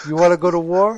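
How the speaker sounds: put-on loud Cuban accent challenge. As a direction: Scarface Cuban accent, punched out. Quoting Scarface lines.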